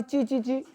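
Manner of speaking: soft mock chirping ची ची ची. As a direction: tease them with a soft bird chirp. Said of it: "चीचू चूचा करे रहो।".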